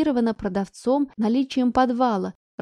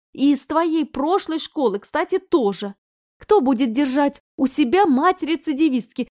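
angry reproach; 4 semitones higher, 5 dB louder than usual. Acted. Mother reproaching daughter.

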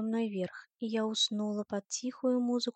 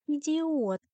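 higher-pitched, mildly hissed insult; 6 semitones higher, 4 dB louder than usual. Acted. Liv insults him while being helped to walk, mildly hissing. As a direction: throw it out sharply, pitch raised. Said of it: "прошипела Лив".

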